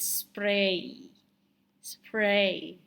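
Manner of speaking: "spray" drawn out on the long vowel; modelled pronunciation. Shown as a demonstration. Teacher shows the way to pronounce it, "spray" drawn out. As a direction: say "spray" carefully, stretching the ay. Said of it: "the way to pronounce it is".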